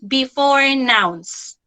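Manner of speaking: "before" drawn out slowly ahead of "nouns"; stress on before. Shown as a demonstration. Teacher emphasizing a key word for kids, stressing "before". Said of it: "emphasize the word before".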